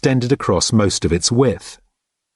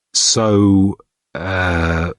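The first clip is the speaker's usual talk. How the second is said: cautious prompt; 2 semitones lower than usual. A narrator's reading. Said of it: "going for a cautious prompt".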